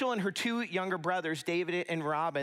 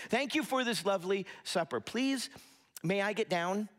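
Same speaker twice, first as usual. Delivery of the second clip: measured, courteous recital with a lifted "Please"; carefully polite, pausing before the request; polite child's recital; 3 semitones higher than usual. Retold or imitated. Kids thanking their parents after dinner, politely recited. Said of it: "they would have their kids say".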